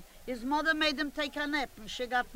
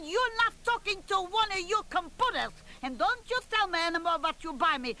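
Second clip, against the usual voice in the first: raised, higher scolding, fast at the end; indignant mother; 4 semitones higher, faster than usual. Retold or imitated. Annie scolding her son, raised and indignant. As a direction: put the big shot son in his place. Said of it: "She said".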